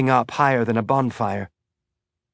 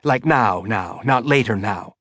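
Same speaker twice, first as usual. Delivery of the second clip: fast and fearful. Acted. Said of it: "fear making the words come fast".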